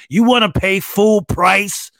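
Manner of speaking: guilt-trip like a snooty ad; pop-up icon shaming the shopper, mock snooty; snotty pop-up. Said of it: "icon will pop up like".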